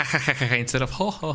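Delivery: quick ha ha ha ha; ha ha laugh. Shown as a demonstration. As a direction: rattle off a light ha ha ha. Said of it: "you were very ha".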